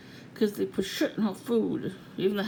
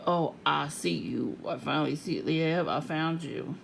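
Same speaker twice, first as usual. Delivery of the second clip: mocking stalker voice; 3 semitones lower than usual.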